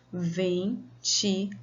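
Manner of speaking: Ventilador said slowly but joined; slowly spoken. Shown as a demonstration. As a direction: say Ventilador slowly in one piece. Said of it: "vamos contar quantas vezes você falou".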